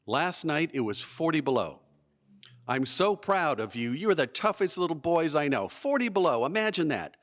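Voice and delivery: lightly voiced excited scoutmaster; imitated excitement. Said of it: "He's incredibly excited".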